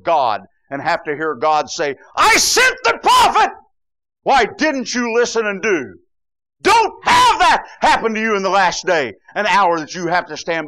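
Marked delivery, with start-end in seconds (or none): 2.2-5.9 very high, loud booming reproach; thundering rebuke. Acted. Preacher voicing God rebuking the unheeding, loud thundering. 6.6-10.7 loud fervent shout; preaching shout. Real, not acted. Preacher warning the congregation at full force, shouting.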